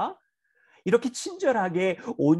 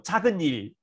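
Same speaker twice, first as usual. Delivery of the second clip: kind request. Retold or imitated. Father kindly asks his son to clean his room, gently. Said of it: "친절하게 이야기했거든요".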